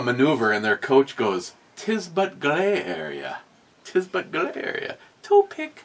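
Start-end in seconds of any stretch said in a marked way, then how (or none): 1.8-5.0 mock Russian coach. Coach to skaters, mock Russian accent. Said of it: "He's Russian". 5.2-5.8 high, loud mock Russian shout; mock Russian yell. Coach yells at skaters, hammed-up Russian accent. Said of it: "He's Russian".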